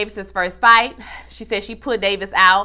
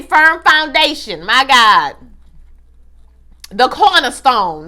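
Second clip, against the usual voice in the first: churchy praise; 3 semitones higher, 6 dB louder, slower than usual. Real, not acted. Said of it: "Christ alone, cornerstone".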